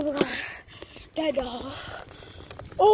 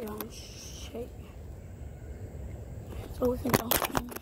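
shaken; 7 semitones lower, 11 dB quieter than usual. Real, not acted.

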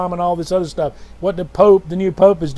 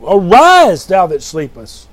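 scripture call; 6 dB louder, slower than usual. Real, not acted. Preacher quoting scripture loudly.

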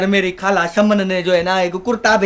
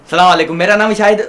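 loud practice greeting; 6 dB louder than usual. Shown as a demonstration. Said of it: "पागल है ये एकदम".

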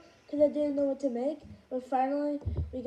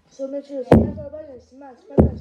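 louder and louder smash calls; excited outro; 12 dB louder than usual. Real, not acted. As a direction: hype the viewers up. YouTuber outro call.

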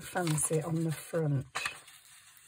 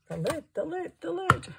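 singsong search; 12 semitones higher than usual. Acted. Searching for lost lid.

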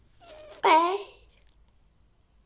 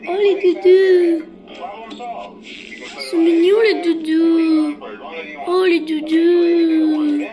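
cooing; much slower than usual. Real, not acted. Cooing over cute plush toys.

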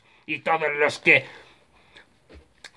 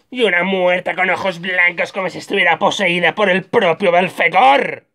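hammed-up horror; 5 semitones higher than usual. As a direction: build to a theatrical climax. Describe horrorizado a una muerta poseída.

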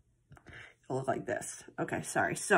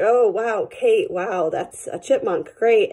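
louder, forced "wow" with a flat "Great"; mock enthusiasm; 3 semitones higher, 3 dB louder, slower than usual. Owner faking praise for the cat's chipmunk gift, forced cheer. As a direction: fake the delight through clenched dismay.

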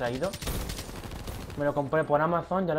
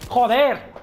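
frustrated curse; 5 semitones higher, 6 dB louder than usual. Real, not acted. Frustrated gamer curses aloud.

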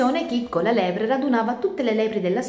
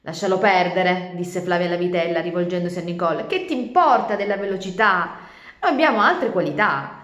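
consoling calf; 5 dB louder than usual. Acted. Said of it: "aggiunse per consolarla".

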